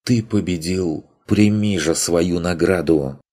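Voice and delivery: lightly voiced sultry pixie; languid fairy voice. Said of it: "томный голос фейки".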